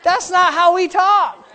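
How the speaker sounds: laughing tease. Retold or imitated. Father ribs his son, laughing. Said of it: "I said".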